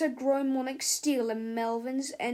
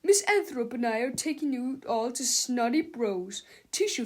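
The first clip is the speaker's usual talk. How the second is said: shouting; 5 dB louder than usual. Acted. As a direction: announce it over the class. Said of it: "he shouted".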